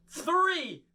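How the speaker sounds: high climactic shout of Disappearo; magician's triumphant high cry; yelled spell. Acted. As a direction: cast the spell with a big high yell. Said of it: "we're gonna yell out".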